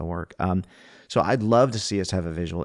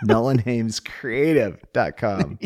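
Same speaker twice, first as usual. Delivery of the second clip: slowed right down, each word spelled out; slow and clear; 3 semitones higher, 5 dB louder, much slower than usual. Shown as a demonstration. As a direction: say the address slowly for listeners. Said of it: "Slow down".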